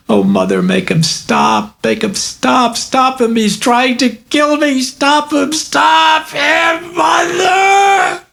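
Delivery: high, slow, terrified pleading rising to a shriek; a tormented girl begging her mother to make it stop; terrified child. Acted. Girl screams at mother in terror, high pleading shriek.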